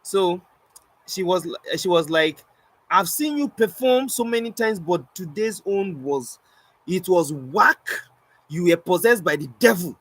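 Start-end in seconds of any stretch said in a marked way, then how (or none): 2.9-10.0 high opening, drawn-out scornful mimicry; disgusted verdict. Lady telling the performer his show was bad, mock disgust. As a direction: stretch out the damning judgement. Lady's harsh verdict acted out.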